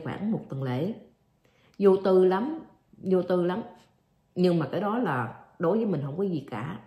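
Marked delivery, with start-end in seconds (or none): none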